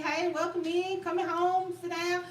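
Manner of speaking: warm welcome. Shown as a demonstration. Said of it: "We mean".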